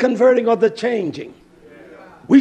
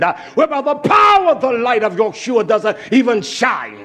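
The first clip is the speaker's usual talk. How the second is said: fiery preaching. Acted. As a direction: hammer it home from the pulpit. Preaching at full force.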